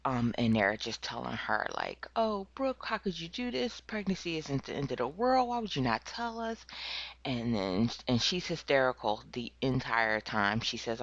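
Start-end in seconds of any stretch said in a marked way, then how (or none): 2.2-6.6 high, pleading mock parent voice. Parents pleading with their daughter, a high distraught voice. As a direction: play the distraught parents begging for answers.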